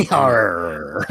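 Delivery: laughing pirate arr; pirate growl. Retold or imitated.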